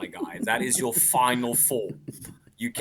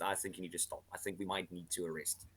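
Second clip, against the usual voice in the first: mock timid cop; 5 semitones lower, 14 dB quieter than usual. Voicing Australian police officer.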